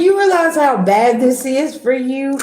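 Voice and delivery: slowed-down mock disbelief; mock incredulous. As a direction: drag it out like you can't believe them. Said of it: "you're like".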